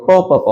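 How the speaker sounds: "প, প, প" as three separate beats; teacher isolating the sound "প"; sound demo. Shown as a demonstration. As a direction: repeat the syllable "প" distinctly. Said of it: "কি উচ্চারণ করছি আমরা?".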